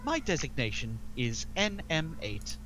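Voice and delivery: booming metallic robot; loud, formal droid voice at times; protocol droid. Acted. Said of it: "You can do it in a robot voice".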